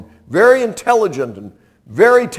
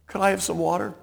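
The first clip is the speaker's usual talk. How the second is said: meek request; 4 semitones higher, 6 dB quieter, much faster than usual. Acted. Calmed fugitive asks for water.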